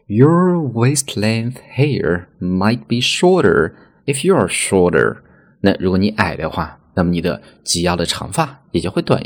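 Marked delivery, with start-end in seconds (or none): 0.1-5.2 slow example sentence. Shown as a demonstration. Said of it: "我们就会说".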